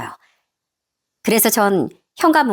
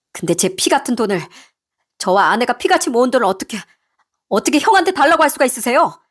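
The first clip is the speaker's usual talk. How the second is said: son's restrained reproach, growing more heated; hurt, reproachful husband; 2 semitones higher than usual. Acted. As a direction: confront your mother over years of neglect. Husband confronts his mother.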